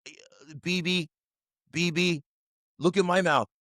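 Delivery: light Trump voice, boastful and rambling; a mild take on Trump talking to Bibi; slight Trump cadence, pleading; Trump impression. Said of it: "I'm just gonna do the rest of the podcast as Trump".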